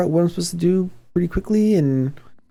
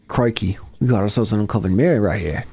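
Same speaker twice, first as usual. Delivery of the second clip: badly faked Australian accent, pitched a little low; terrible Australian accent; 5 semitones lower than usual. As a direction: put on a hammy, unconvincing Australian accent. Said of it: "That's my terrible Australian accent".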